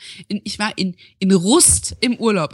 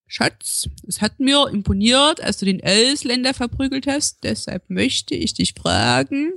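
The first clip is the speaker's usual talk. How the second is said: Saxon dialect bit. Retold or imitated. Repeating a joke bit in light Saxon dialect. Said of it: "ein ganz anderer Dialekt".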